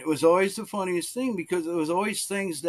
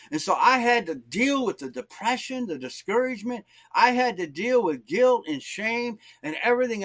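high-pitched, fervent sermon delivery; impassioned preaching; 7 semitones higher than usual. Real, not acted. Preacher testifying to the church about depression and guilt, impassioned. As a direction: preach it with urgency.

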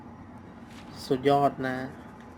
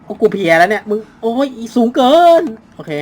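exhausted; 7 semitones higher, 8 dB louder than usual. Real, not acted.

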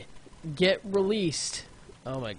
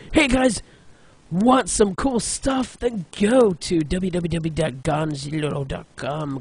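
a half-joking commercial plug; mock ad read; 3 dB louder than usual. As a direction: sell it like a cheesy web ad.

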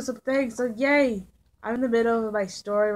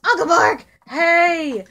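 excited greeting; 6 semitones higher, 7 dB louder, slower than usual. Pretend. Spotting Uncle Mark in game.

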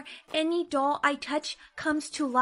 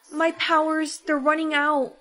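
louder urgent alarm; 4 dB louder than usual. Acted. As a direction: sound the alarm. Powers fading, panic.

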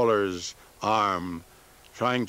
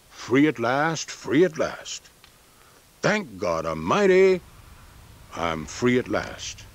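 quoting King; 3 semitones higher than usual. Retold or imitated. The speaker quotes King to Farmer, slow mock-oratory. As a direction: lightly echo a preacher's refrain. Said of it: "I will answer it by quoting a friend of yours".

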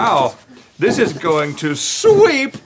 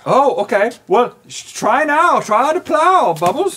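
high coaxing; 7 semitones higher than usual. Real, not acted. Coaxing the chicken.

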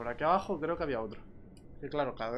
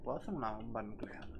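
whispering; 5 semitones lower, 9 dB quieter than usual. Pretend. Conspiratorial question.

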